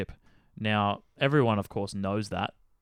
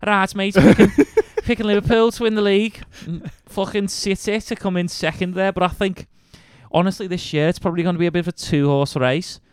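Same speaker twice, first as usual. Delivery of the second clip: lightly put-on Scouse, pitched higher and louder; Liverpool accent; 8 semitones higher, 6 dB louder than usual. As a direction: do your best Liverpool lad accent. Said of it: "should have done a Liverpool accent there".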